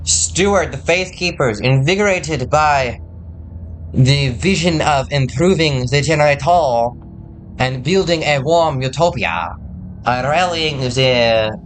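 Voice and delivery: slow, oratorical attempt at an Irish accent; failed Irish accent. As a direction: read it out grandly in a muddled put-on Irish accent. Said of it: "why am I talking like this".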